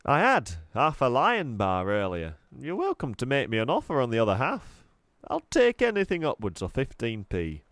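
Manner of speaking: jolly salesman pitch, lightly voiced; cheery shopkeeper. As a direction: sell the stale sweets with a grin. Raj haggling over half a bar.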